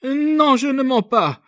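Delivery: high, loud, fervent denial; ardent. A narrator's reading. Young girl to the officer, defending herself, ardent. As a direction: burst out fervently in her own defence. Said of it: "reprit ardemment".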